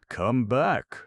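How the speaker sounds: loud, high call; shouted. Acted. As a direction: shout after the fading figure. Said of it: "shouted Arthur".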